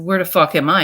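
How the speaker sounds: startled awake and demanding answers; alarmed loud question. Retold or imitated. Waking in hospital, asking the patient opposite, loudly alarmed.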